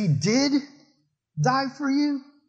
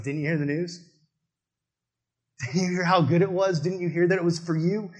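pleading Jesus. Pretend. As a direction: gently ask why they didn't listen. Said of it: "he's like".

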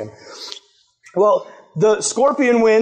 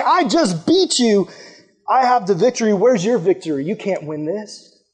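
taunting. Pretend. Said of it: "Jesus is looking at death and saying".

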